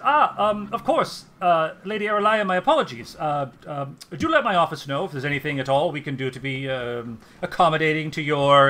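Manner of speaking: suddenly the nervous, fawning clerk; flustered elf official. Acted. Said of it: "the elf just says".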